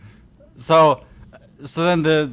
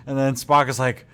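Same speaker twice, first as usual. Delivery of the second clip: normal talking voice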